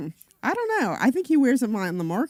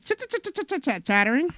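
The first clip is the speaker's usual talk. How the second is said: imitating chatter; 5 semitones higher than usual. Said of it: "'cause they're, like".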